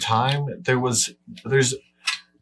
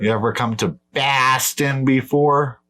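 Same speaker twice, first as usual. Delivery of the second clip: hammed-up Boston accent; 3 semitones higher than usual. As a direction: put on a whole Boston accent. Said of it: "It's the whole accent".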